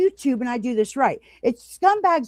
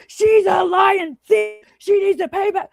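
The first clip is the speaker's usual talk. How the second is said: shrill-free mocking yell, higher and louder; mock scream; 8 semitones higher, 4 dB louder than usual. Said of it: "go live and scream".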